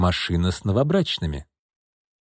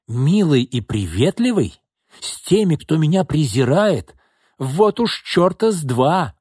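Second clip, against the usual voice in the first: higher, slow scornful shriek; 5 semitones higher, slower than usual. Acted. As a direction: throw her words back with a shriek. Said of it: "взвизгнула Ирма".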